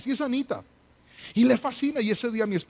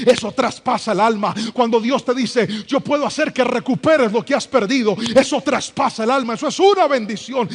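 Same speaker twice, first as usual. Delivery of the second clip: louder, building preaching; rising sermon fervor; 4 semitones higher, 6 dB louder than usual. Acted. Pastor stirring the congregation about God's promises, building to full force. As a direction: build the fire toward the climax.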